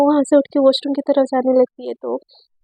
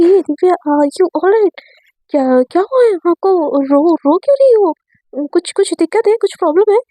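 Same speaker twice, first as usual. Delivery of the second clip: फ़िक्रमंद आवाज़; 3 semitones higher than usual. Acted. Crying friend found in washroom.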